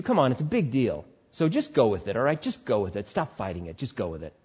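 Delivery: coaxing tempter. Acted.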